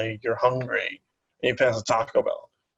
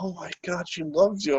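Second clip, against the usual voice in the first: higher-pitched retold gushing; gushing intern; 6 semitones higher than usual. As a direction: lightly imitate a gushing intern. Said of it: "the intern there, she's like".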